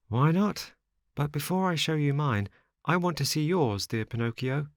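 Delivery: lightly voiced boy, agreeable but bargaining; agree, then politely hold out; wary Lampwick.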